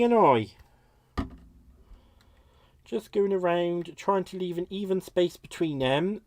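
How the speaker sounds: West Country dialect, chatty and playful; put-on West Country accent. Crafter narrating sticking pieces down, in put-on West Country accent.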